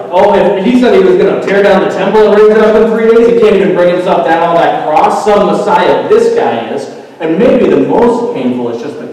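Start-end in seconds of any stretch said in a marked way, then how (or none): 0.1-6.9 loud, raised jeering voice; open mocking. Bystanders taunt Jesus on the cross, mocking openly. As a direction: jeer at him like a heckler. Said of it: "mocking him openly".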